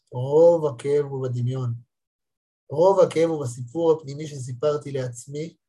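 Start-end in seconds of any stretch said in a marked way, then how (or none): 0.1-1.7 repeated slowly for weight; slow emphatic restatement; slower, deliberate repeat. Shown as a demonstration. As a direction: let each word land.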